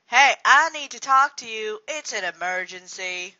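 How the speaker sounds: loud urgent call. Acted. Calling out urgently about an emergency. Acting a scripted urgent line.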